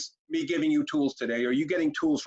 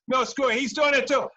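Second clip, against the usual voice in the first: put-on loud, higher whiny kid shouting back; defiant kid yell; 8 semitones higher, 5 dB louder than usual. Shown as a demonstration.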